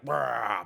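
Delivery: short loud "Rah" roar; warrior roar. Retold or imitated. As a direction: bark out a party-warrior "Rah". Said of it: "back into that mode".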